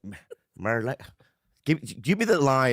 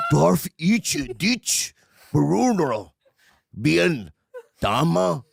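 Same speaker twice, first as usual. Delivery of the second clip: very slow mock Asian accent with a laugh; 2 semitones higher, much slower than usual. Shown as a demonstration. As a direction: attempt the line in a put-on Asian accent, laughing. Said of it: "Now try it with an Asian accent".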